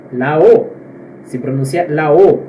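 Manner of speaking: closed, rounded O in "La O". Shown as a demonstration. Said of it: "é mais fechado".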